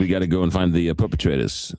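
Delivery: imitated New York police chief; New York accent. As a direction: talk like a New York cop. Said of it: "he's a New Yorker".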